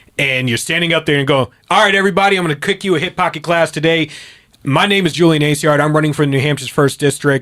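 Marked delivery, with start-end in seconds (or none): 1.7-7.4 projected man voice, cutting through, higher and louder. Showing how to address a crowd at a range: man voice, not loud but cutting through. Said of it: "you use your man voice".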